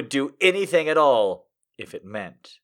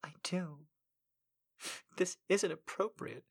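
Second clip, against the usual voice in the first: insisting; 3 semitones higher, 16 dB quieter than usual. Acted. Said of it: "she insisted".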